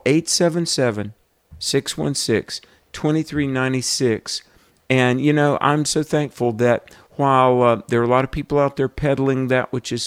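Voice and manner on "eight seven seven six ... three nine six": slow, each digit set apart. Real, not acted. Host urging listeners to call, digits said slowly. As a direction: pace it for people dialing. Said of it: "They tell me to speak a little fa-, uh, slower".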